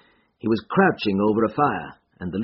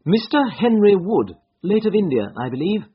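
affable, higher-pitched greeting; 10 semitones higher, 5 dB louder than usual. A narrator's reading. Holmes greets Henry Wood, late of India, affably. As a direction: address him affably, pitched up. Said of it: "said Holmes affably".

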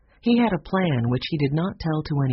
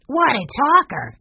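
put-on much higher, delighted boy's cry; 10 semitones higher, 5 dB louder than usual. A narrator's reading. Mike delighted by the talking bird, high and excited. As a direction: exclaim with delight. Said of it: "Mike was delighted".

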